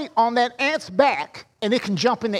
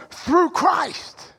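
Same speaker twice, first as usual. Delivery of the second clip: "through Christ" raised and leaned on, "through" strongest; stress on THROUGH CHRIST; 5 semitones higher than usual. Shown as a demonstration. Pastor shows the right stress, leaning on "through Christ". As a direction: put the weight on "through Christ". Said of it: "the emphasis should be on".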